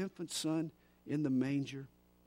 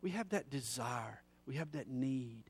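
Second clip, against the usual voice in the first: hushed, breathy confession; whisper; 2 semitones lower, 6 dB quieter than usual. Acted. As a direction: whisper it like a secret. Intimate confession to the congregation.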